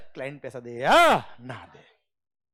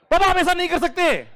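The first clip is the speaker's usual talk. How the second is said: much higher and louder, outraged plea; indignant protest; 12 semitones higher, 7 dB louder than usual. Retold or imitated. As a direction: cry out that it's unfair. Son protesting papa's refusal. (नाराज़गी भरा ऊँचा विरोध)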